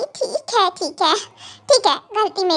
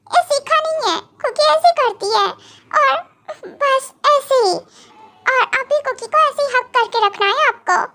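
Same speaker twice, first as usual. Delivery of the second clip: higher, whiny with a little sob-laugh; cling and whimper sweetly, higher; teary clingy wife; 4 semitones higher than usual. Acted. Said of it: "रो रो के मेरा shirt गीला कर दिया है".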